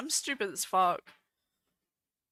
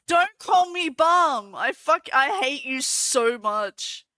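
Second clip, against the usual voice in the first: mock fury; 2 semitones higher, 5 dB louder than usual. Real, not acted. Streamer telling off a teasing chatter, playfully outraged.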